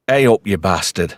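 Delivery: northern English accent, offered to copy; northern English greeting accent. Shown as a demonstration. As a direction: demonstrate a blunt northern English "hey up". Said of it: "Just go".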